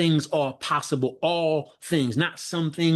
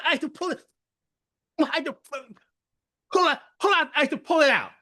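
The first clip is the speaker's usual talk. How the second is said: laughing; 13 semitones higher, faster than usual. Real, not acted. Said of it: "joking about pulling hair".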